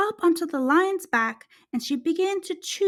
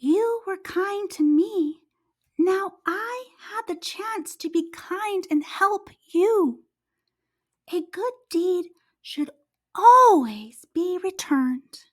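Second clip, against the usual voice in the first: mouse replies; 5 semitones higher than usual. Acted. Mouse answers the lion.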